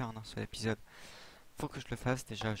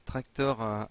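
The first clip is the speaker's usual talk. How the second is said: English word in a French accent; 4 dB louder, slower than usual. Real, not acted. Gamer reading an English item name aloud, French accent. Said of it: "désolé pour mon, mon accent en anglais".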